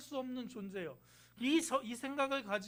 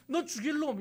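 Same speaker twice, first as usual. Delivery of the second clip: mild mock curse; 5 semitones higher, 4 dB louder than usual. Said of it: "이렇게 얘기하는 게 율법이에요".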